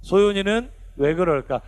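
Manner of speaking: slow, drawn-out 소윤이는 왜 그럴까; slow call-along question; leading aloud. Shown as a demonstration. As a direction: lead a group recitation, stretching each word slowly. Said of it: "크게 한번 시작해 봅시다".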